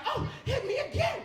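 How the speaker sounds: high, loud mock female shout; woman's loud demand. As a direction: demand it as the frantic lover. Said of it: "she's like".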